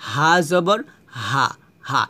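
হা said lightly, ordinary h; easy unstressed হা; plain h sound. Shown as a demonstration. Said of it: "সাধারণভাবে".

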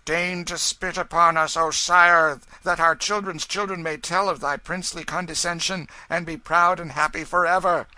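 high, loud, hammed-up pleading; mock wailing supplication. A narrator's reading. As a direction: beg like fake worshippers wailing to a king. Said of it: "ironical wailings and mocking supplications".

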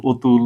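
"অতুল" taught as "otul"; closed o at the start of "অতুল"; first vowel as o. Shown as a demonstration. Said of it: "এটাকে আমরা উচ্চারণ করি". ("অতুল"-এর অ ও-এর মতো)

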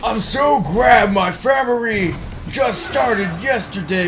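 loud, high hammed-up Japanese accent; mock Japanese accent. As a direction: shout it in a put-on Japanese accent. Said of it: "you gotta work on your Japanese racist voice".

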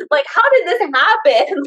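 incredulous retold question; retold astonishment. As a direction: replay your baffled amazement. Retelling her astonished reaction.

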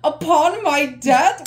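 slow, disbelieving repeat; questioning the odd wording; incredulous question. Real, not acted. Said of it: "Why is it so, like, upon my death?".

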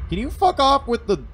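high furious yell; angry shout. Real, not acted. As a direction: blow up at the game. Outburst at game.

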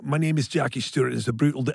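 put-on lightly quoted Scottish accent; a hint of Scottish racing driver; Jackie Stewart. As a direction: slip briefly into mild Scottish. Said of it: "doing my Scottish accent".

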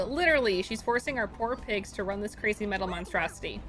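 lightly voiced farm partner with a grievance; a hint of a Southern rancher rallying a partner; folksy Southern game character. Streamer reading rancher's plan against Tess, light folksy Southern voice.

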